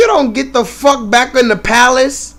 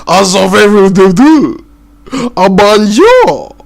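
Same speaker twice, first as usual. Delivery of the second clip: loud, slow hammed-up French voice; mock French; 6 dB louder than usual. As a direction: ham up a fake Frenchman, drawn out. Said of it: "They're over in France".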